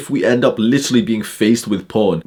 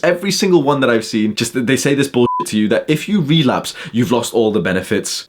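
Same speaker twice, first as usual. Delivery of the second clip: ordinary talk, nothing marked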